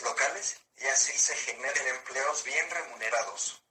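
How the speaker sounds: text-to-speech voice, even and mechanical; synthesized voice. Real, not acted. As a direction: speak like a computer speech synthesizer. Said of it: "esta es una voz sintetizada".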